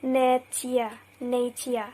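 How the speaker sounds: nature said nay-tee-uh, no ch sound; unmerged t. Shown as a demonstration. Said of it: "we don't pronounce it as".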